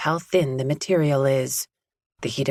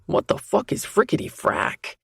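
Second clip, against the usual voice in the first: incredulous; 6 semitones higher than usual. A narrator's reading. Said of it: "That incredulous tone returns".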